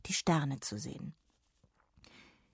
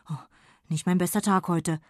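embarrassed fairy. Acted. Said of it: "Verlegen zupfte er".

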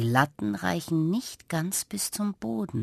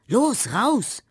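higher, louder urgent prodding; urging; 9 semitones higher, 6 dB louder than usual. A narrator's reading. Girl urging the cats to escape, urgent and firm. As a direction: hurry them out, firm and pressing. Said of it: "mahnt Carla".

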